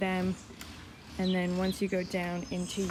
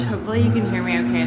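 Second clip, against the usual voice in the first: raised voice over noise; yelling over leaf blower; 7 dB louder, faster than usual. Real, not acted. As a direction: call it out loud over the blower. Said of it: "won't stop leaf blowing".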